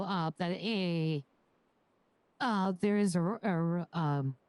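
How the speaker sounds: nervous and short of breath; stumbling, catching breath. Real, not acted. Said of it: "let me collect my breath for a second".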